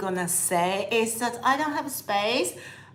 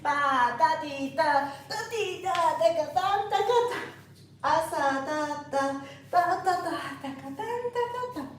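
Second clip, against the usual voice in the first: rising, airy ba da di, climbing higher; light, lifted rhythm; 4 semitones higher than usual. Shown as a demonstration. Flamenco teacher shows students the right, light feel, rising and airy. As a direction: sing the steps light, off the ground. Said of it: "No, it's not going to be like this".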